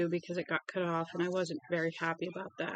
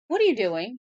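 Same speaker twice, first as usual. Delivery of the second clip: loud, higher call at the dog; scolding the dog; 4 semitones higher, 9 dB louder than usual. Real, not acted. Owner catching her dog in the act, loud scold.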